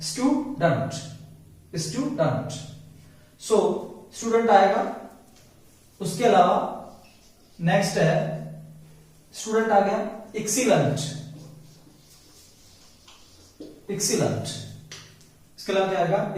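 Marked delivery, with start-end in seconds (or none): 0.1-2.6 "student" broken as stu-dant; ant ending. Shown as a demonstration. Teacher repeating the right take, dant ending. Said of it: "not student". 10.4-14.4 एक्सीलेंट ending in "lant"; ant ending. Shown as a demonstration. Teacher applying the rule for learners, lant ending. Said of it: "उसका उच्चारण होता है अंट".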